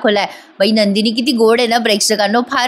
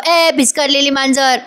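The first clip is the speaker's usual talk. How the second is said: retelling the scream in a mild mock yell, a bit higher; 3 semitones higher than usual. Parth calling out to Kavya, who is ignoring him, in a mild mock yell. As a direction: call out ए भिस्कारलेली मांजर as a half-hearted retold shout. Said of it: "जोरात किंचाळत म्हणतो".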